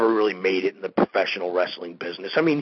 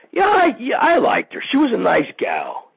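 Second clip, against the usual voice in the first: excited burst; 13 semitones higher, 4 dB louder than usual. Real, not acted. Sudden outburst about the fan.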